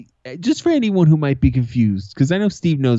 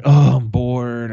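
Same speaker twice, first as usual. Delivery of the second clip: put-on whiny kid; 6 dB louder, much slower than usual. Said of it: "And I was like".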